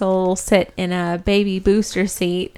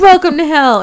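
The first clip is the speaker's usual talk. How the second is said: higher and louder hammed-up "Welcome to hell"; mock demon greeting; 7 semitones higher, 7 dB louder than usual. Demon welcoming the soul to hell, hammed-up glee. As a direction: sell it like a gleeful demon host.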